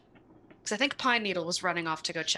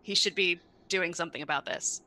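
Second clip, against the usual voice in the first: mildly raised, playful yell; louder, mock-demanding shout; in-character yell; 4 dB louder than usual. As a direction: call out to a teammate, half yelling. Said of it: "I'm gonna yell at Aluminum".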